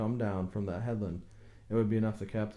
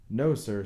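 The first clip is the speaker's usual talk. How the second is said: a firm, louder no sir; emphatic; 5 dB louder than usual. A narrator's reading. Boat builder rejecting the coroner's question, emphatic. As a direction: plant it, no room for doubt.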